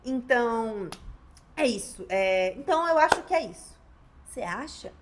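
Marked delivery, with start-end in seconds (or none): 0.0-3.8 hesitant ending. Retold or imitated. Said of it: "Eu não quero que na sua sustentação você fique".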